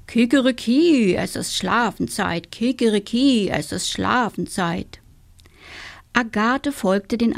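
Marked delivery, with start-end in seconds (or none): 0.1-5.0 rooster crowing. Acted.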